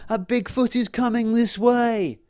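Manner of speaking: small fairy crying out a warning; alarmed fairy. Acted. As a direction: sound the alarm in a tiny fairy voice. Fairy warns of Bigfoot.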